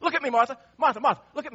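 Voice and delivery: a lightly voiced Jesus, earnest; Jesus speaking tenderly. Jesus answering grieving Martha, earnest and tender. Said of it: "But Jesus said to her".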